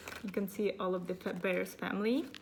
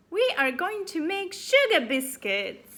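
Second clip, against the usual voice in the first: put-on high girl voice; 9 semitones higher, 9 dB louder than usual.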